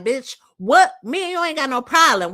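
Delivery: imitating a sassy clapback, fast at the end; mock offended comeback, rushed; acting out a "girl, what?" clapback; sassy retort. Imagined sassy retort to Shamina.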